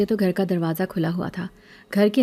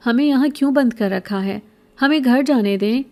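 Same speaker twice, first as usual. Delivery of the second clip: higher, louder angry plea; protesting demand; 5 semitones higher, 3 dB louder than usual. Acted. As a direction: demand to be let go, voice climbing. Locked-up boy confronts captor. (قید لڑکا بھکارن سے، غصے بھری بلند التجا)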